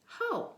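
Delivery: first syllable ho said long and high; sound ho. Shown as a demonstration. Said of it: "That first syllable will sound like".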